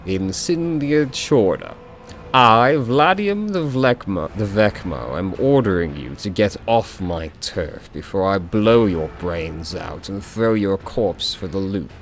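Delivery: slow, lazy drawl, unbothered gangster; slow, careless drawl of a thug. Acted. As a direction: drawl the threat out like you own the place. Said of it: "says in a lazy drawl".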